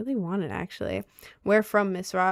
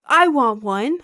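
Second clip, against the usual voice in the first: higher and louder, pleading; eager whine; 4 semitones higher, 8 dB louder, slower than usual. Real, not acted. Streamer begging chat for a grimoire. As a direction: beg for it. Repeat, high loud.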